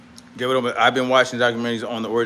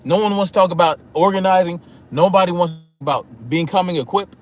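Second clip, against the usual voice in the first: retold frustration; 3 semitones higher than usual. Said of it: "yes, I was frustrated".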